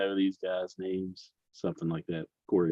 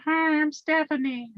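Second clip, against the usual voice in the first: sassy drag queen; 5 dB quieter than usual. Pretend. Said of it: "Give us your drag voice".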